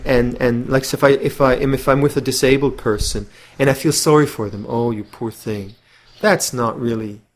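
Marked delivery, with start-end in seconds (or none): 4.7-5.8 slow, softer mock pity; a hint of a condescending sigh over the poor thing; patronizing pity. Imitating pity for a disabled person, lightly patronizing. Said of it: "that's patronizing sentimentality".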